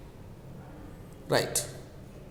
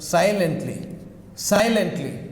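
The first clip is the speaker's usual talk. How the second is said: "Silently" said SI-lently, first syllable strong; stress on first syllable. Shown as a demonstration. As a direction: lean on SI in "Silently", let it fall. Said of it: "Stress is on the first".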